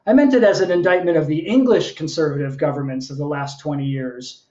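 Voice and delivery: measured, performed poem with lilting phrases; poetry reading. Acted. Poet reading to an online audience, performed delivery. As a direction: read it as a live poem, line by line. Reads own poem aloud.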